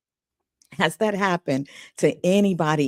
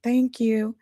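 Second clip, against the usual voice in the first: a drawn-out, higher "Oh, okay" letting her down gently; polite brush-off; 8 semitones higher, 4 dB quieter than usual. Retold or imitated. Casting director politely dismissing the singer, drawn-out and higher. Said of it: "And she said".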